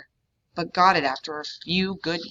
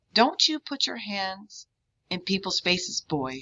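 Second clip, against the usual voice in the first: ventriloquist voice; 3 semitones higher than usual. Acted. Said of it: "why are you talking like a ventriloquist".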